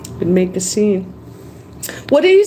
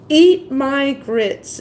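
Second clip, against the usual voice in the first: sitcom catchphrase; 2 semitones higher, much slower than usual. Retold or imitated. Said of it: "the woman used to say".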